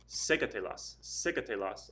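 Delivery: "secatelas" stressed on the first syllable. Shown as a demonstration. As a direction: lean on the SE in "secatelas". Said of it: "The stress is over that E".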